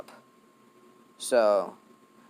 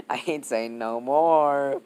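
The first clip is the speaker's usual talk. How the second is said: NO MORE stretched out slowly; slow right down on "no more"; drawn-out refusal; 3 semitones higher, 4 dB louder, much slower than usual. Real, not acted. Storyteller dodging the rude detail, NO MORE drawn out slowly.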